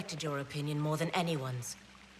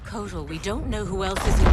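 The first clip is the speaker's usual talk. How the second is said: louder and fast, an alarmed warning; rushed, raised urgent objection; urgent protest; 3 semitones higher, 10 dB louder, faster than usual. Acted. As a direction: cut him off before he acts. Warning Kotal against burning hive.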